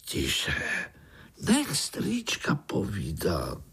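slow scolding whisper; hushing rebuke. Acted. The others hushing Pája so the uncle can talk, whispered. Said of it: "hned ho okřikli".

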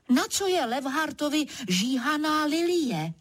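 vyšší, ostřejší otázka; vyštěkni tu otázku; rozkřiknutí. Acted. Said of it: "Rozkřiknu se zas". (křik na levharta)

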